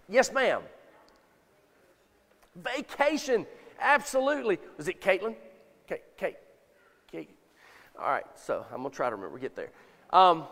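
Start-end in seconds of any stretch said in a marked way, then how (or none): none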